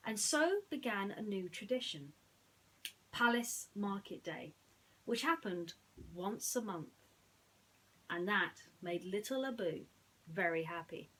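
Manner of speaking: put-on bright read-aloud story voice for children; lively storybook reading; storytelling narration. A narrator's reading. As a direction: tell it like a bedtime storybook.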